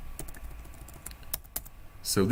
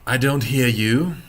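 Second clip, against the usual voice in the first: mock teacher scolding; 4 semitones higher, 5 dB louder than usual. Teasing students to repeat aloud.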